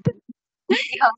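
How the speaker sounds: "Beyond" with pitch lifted high on "yond"; repeating the correction. Shown as a demonstration. Student echoing tutor's corrected beyond, stress on second syllable. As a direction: echo the teacher, landing on "yond". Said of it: "重音在第二个音节上面".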